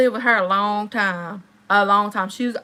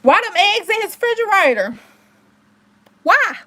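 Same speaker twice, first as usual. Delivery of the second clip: higher and louder, exasperated; indignant why, pitched up; incredulous outrage; 9 semitones higher, 6 dB louder than usual. Real, not acted. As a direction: demand an answer from the crowd. Outraged about the hidden eggs.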